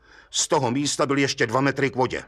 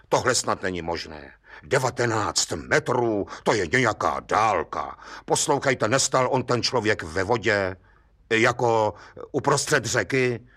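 lower, measured voice of a puzzled judge; lightly voiced skeptical judge; judge's voice; 4 semitones lower than usual. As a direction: play the doubtful old judge, lower.

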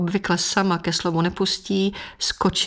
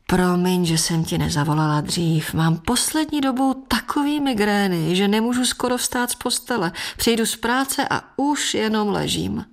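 complaining mother; 3 semitones higher than usual. Acted. Mother excuses herself to Jana with mild self-pity. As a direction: whine a little about your migraines.

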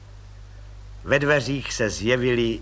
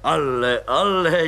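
surprised; slower than usual. Acted. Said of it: "divil se plukovník".

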